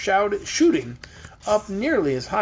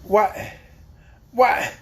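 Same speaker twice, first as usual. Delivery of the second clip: put-on higher, reproachful old farmer complaining; 8 semitones higher, slower than usual. A narrator's reading. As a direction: chide her gently for not warning them. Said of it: "inquired Uncle Henry reproachfully".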